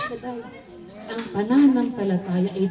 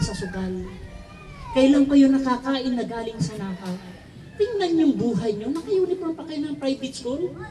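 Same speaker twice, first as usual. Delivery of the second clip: retold father scolding, pitched higher; angry father; 5 semitones higher than usual. Father scolding his gambling children, raised angry voice. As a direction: scold the kids like a furious dad. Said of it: "Galit na galit yung tatay ko".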